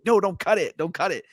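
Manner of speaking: high-pitched angry plea, retold; getting angry. Possessed woman down below forbidding the cut, mock angry. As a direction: imitate her angrily forbidding it. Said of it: "she's getting angry".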